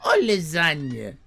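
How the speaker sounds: put-on high, slow Italian-accented demand. Italian owner insisting customers order fish or lasagna. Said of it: "he say".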